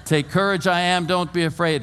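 shouted. Acted. Jesus to disciples in the storm, shouting. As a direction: call it out as if through a storm. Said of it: "he had to have shouted it".

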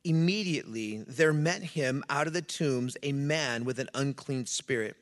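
measured, firm public Bible reading; scripture reading. A narrator's reading. Pastor reading the Gospel story to church, scripture reading. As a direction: read it out solemnly to a congregation.

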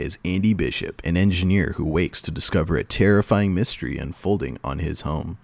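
lightly dramatic trailer read; movie trailer voice. Shown as a demonstration. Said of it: "do your movie voice".

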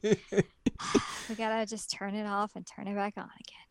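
hushed tech-support whisper. Acted. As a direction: whisper it like a secret fix. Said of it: "She literally just did I T".

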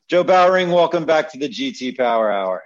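loud, high announcer welcome; emcee announcement. Real, not acted. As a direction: introduce him like a game show host. Host formally welcoming the guest.

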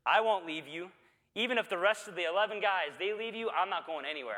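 retelling Peter's eager vow to Jesus, mildly enthusiastic. Retold or imitated. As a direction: swear loyalty with zeal. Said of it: "very enthusiastically says".

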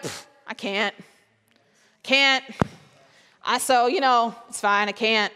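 a hint of a hopeless sufferer; defeated sigh. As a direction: give up before you start. Voicing a defeated person.

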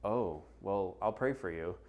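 low, withdrawn polite brush-off; mock a disgusted churchgoer backing off; veiled disgust. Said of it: "look and appearance of disgust".

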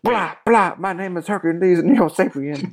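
a lightly mocking alien intro; goofy monster voice. Riffing on Hercules Mulligan in a silly alien voice. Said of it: "And he's like".

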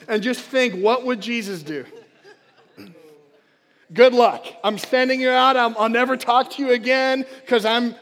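loud, mock-breezy send-off as Jesus; booming offhand farewell; Jesus sending them out. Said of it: "and he said".

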